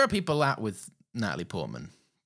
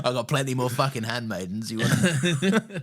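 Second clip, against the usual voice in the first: mock tough queen; 3 semitones higher, 4 dB louder than usual. Playing the queen, mock threat.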